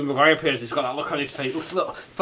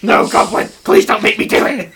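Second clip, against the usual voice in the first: mock pleading Norman; 8 semitones higher, 9 dB louder than usual. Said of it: "Norman pleading with goblin".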